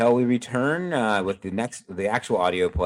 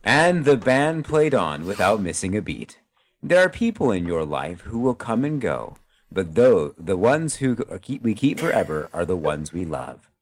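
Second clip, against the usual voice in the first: solemn closing speech. Acted. Host reads a heartfelt holiday message to listeners, lightly announcer style. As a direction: deliver it like a sentimental radio sign-off.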